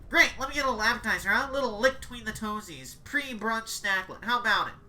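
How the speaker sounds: leer at the witch like a hungry ghoul; greedy cannibal. Acted. Cannibal asks for toes.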